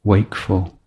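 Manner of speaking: measured, unhurried meditation teacher with long pauses; spacious meditation instruction, letting each phrase settle; guided meditation. Real, not acted. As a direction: guide the breath gently, phrase by phrase.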